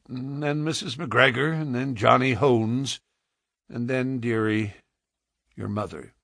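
lightly voiced Western man listing losses; weary frontiersman. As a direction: break it gently to a child. Man lists the dead to child.

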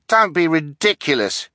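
high-pitched, eager objection. A narrator's reading. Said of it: "stepping forward eagerly".

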